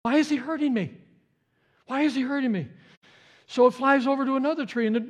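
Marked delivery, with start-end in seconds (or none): 0.0-2.7 mother bird voice. Acted. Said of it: "and says".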